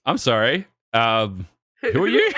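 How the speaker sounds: rising, laughing disbelief; baffled. Retold or imitated. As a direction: ask it bewildered, half laughing. Bewildered reply in bar story.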